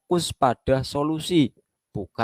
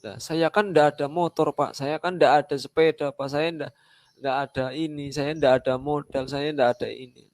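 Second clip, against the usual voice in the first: higher, whining list of excuses; whiny excuse-maker; 3 semitones higher than usual. Retold or imitated. Member answering the mentor with excuses, mock whine. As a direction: play the member who has an excuse for everything. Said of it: "terus Anda menjawab".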